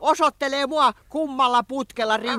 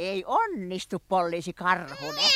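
soft, lower tearful whimper; crying; 7 semitones lower, 6 dB quieter than usual. Acted. Cornered suspect whimpers to Poliisi Karhunen, mock tearful. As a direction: fake a sniffle to win sympathy.

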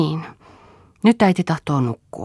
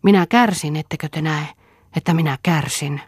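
panting; 2 semitones higher than usual. Acted. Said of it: "Ja huohottaen jatkoi hän".

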